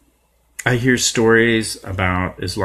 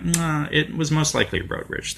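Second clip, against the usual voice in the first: higher, dismissive mock of the police; sarcastic imitation of police saying "Nah"; 8 semitones higher, 5 dB quieter than usual. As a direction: brush it off like a lazy cop. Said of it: "they're kinda like".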